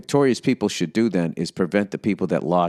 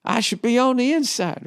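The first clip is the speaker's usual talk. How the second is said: Foghorn Leghorn voice; 12 semitones higher than usual. Retold or imitated. Retelling Foghorn Leghorn calling the dog, high rooster impression. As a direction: ham up the blustering cartoon rooster. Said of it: "he's like".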